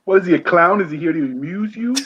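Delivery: lightly voiced mobster, a touch of New Jersey; a hint of a tough-guy gangster asking; The Godfather impression. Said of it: "That was actually an attempt at The Godfather".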